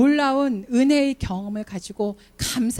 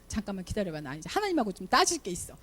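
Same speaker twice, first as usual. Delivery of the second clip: much softer, low and brief; quiet aside; 3 semitones lower, 8 dB quieter than usual. Pretend. Wife telling her husband to wait mid-quarrel, softly. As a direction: wave the husband off under your breath.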